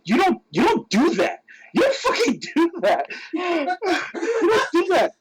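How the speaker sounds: very high comic protest; indignant scolding. Retold or imitated. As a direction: scold your friend, voice climbing into a squeak. Acting out scolding his friend.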